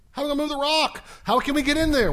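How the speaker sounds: acted rising alarm over a problem; mock fretting. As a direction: fret aloud as the worried women. Women fret at the blocked tomb.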